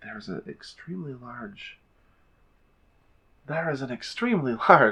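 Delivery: audible stage whisper. Narrator voicing Iku as she whispers to the group, Iku's audible stage whisper. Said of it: "she's going to whisper audibly".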